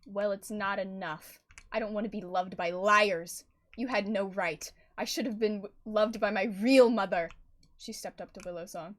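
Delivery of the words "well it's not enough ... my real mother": cold rejection. Acted. Daughter rejects the liars.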